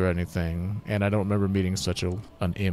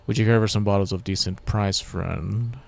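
merchant voice; 5 dB louder than usual. Acted. Ale seller voiced.

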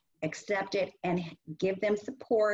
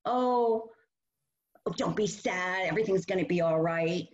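dismissive soothing; 2 semitones lower than usual. Shown as a demonstration. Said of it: "Don't tell them".

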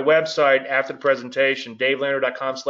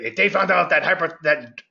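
lightly put-on friend's voice, pitched up; imitated friend; 4 semitones higher than usual. Trader restarting a friend's old saying, lightly imitated. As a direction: mimic how a friend talks, higher. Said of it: "This is how I really talk".

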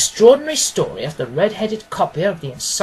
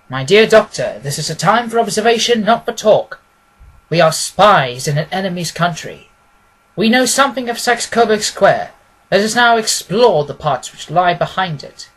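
louder, brisk and commanding detective; a keen detective, louder and decisive; Holmes voice; 6 dB louder than usual. Acted. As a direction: speak as the sharp, confident Holmes instructing his friend. Holmes speaking in the story.

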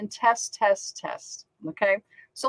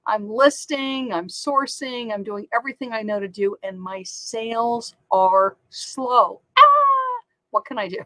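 mock a despairing seller pleading for help; frustrated seller; 2 semitones higher, 4 dB louder than usual. Sellers messaging Kathy about slow sales, imitated as a hammed-up whine. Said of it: "sellers that are going".

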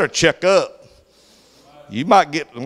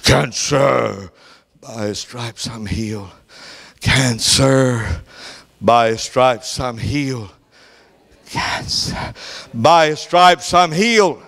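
rising declaration; 5 semitones lower, slower than usual. Retold or imitated. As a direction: answer the disease again and again, growing stronger. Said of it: "She's speaking his executive order".

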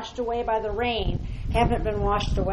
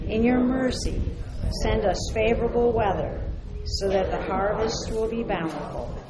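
prayer; slower than usual. Acted. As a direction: pray with growing force. Blessing prayer, rising in force.

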